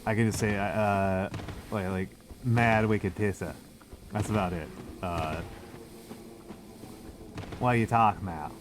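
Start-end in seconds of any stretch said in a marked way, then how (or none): 2.4-3.5 slow, half-hearted Boston accent; badly faked Boston accent, drawn out. Shown as a demonstration. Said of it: "I can't really do a Boston accent". 7.6-8.5 half-hearted stab at a Boston accent; badly faked Boston accent. Shown as a demonstration. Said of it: "I can't really do a Boston accent".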